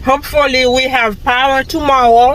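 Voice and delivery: talking while chewing gum; words round a wad of gum. Real, not acted. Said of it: "I've been talking to y'all with the gum in my mouth".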